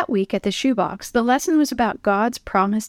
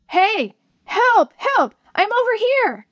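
calling out; 12 semitones higher, slower than usual. Acted. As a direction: shout to be found. Boy calls to rescuers.

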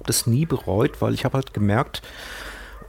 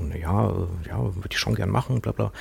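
imitating a timid, hesitant reply; retold shy answer, a little softer; intimidated; 2 semitones lower, 4 dB quieter than usual. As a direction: mumble it modestly, as if intimidated. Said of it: "ich dann so ziemlich eingeschüchtert".

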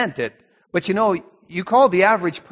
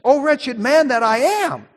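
higher, slow, impassioned exclamation; with feeling; 6 semitones higher, 3 dB louder than usual. Retold or imitated. Preacher stressing Paul's exclamation, higher and impassioned. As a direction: cry it out like the exclamation point. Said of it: "He said it with feeling".

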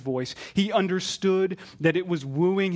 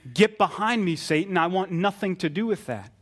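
higher-pitched, emphatic dismissal; firm rebuke; 3 semitones higher than usual. Acted. Jesus rejecting Satan's temptation, firmly rebuking. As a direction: send the tempter away with some force. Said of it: "And what must Jesus say?".

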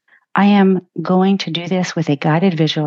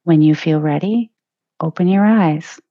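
guided meditation. Acted. Podcast host guiding listeners through a leadership visualization, calm meditation voice. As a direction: ease listeners into a peaceful inner journey.

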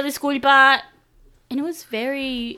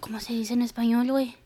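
whispered aside; 6 dB quieter, faster than usual. Real, not acted.

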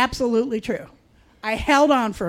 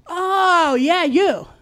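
roommate's voice; 5 semitones higher, 4 dB louder, much slower than usual. Retold or imitated. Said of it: "that same voice answered".

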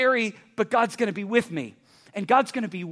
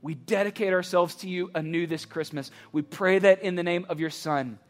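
closing prayer; 3 semitones lower than usual. Acted. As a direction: pray over them gently. Closing prayer over campus.

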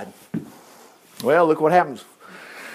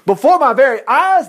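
roaring; 5 semitones higher, 3 dB louder than usual. Acted. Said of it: "the king roared".

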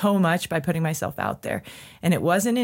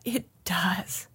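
1 whispered realization; 6 dB quieter than usual. Retold or imitated. Her own answer, whispered.

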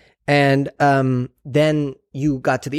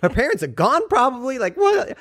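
rising, panicky imitation of her own worry, climbing higher; frantic; 9 semitones higher than usual. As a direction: retell the panic as it spirals up. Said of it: "I'm, like, frantic".

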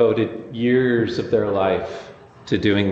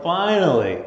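eager John. Retold or imitated. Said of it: "He is like".

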